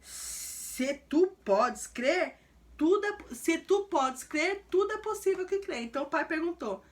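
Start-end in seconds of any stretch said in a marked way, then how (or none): 0.0-5.8 very slow, stern rebuke that jumps higher on tudo é; Jesus sternly rebuking the doubting father, slow and indignant. Acted. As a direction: drag out se tu podes crer, then snap tudo é up high. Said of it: "indignado, Jesus tava bravo esse dia".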